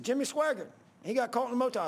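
high, jeering imitation of hecklers; mocking. Sheet metal guys ribbing the preacher about a scandal, mocking. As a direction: taunt him loudly up high. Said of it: "they all started mocking".

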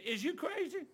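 preacher imitating street talk. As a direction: toss it off like street slang. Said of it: "As they say in, on the streets".

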